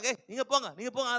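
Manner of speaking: imitated brisk rebuke; mock scolding. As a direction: shoo them off in a mock telling-off. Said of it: "எல்லாம் அதட்டுறாங்க".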